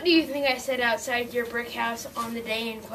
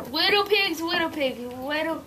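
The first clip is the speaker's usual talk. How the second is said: wolf calling sing-song; 3 semitones higher than usual. Acted.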